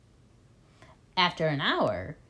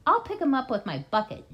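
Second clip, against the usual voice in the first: shout; 6 semitones higher, 3 dB louder, faster than usual. A narrator's reading. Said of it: "shouted Bunce".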